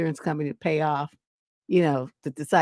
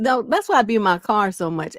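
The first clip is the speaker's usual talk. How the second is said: ordinary talk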